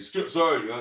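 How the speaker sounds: fake-sorry sarcastic brush-off to dad. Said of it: "And I'll be sarcastic".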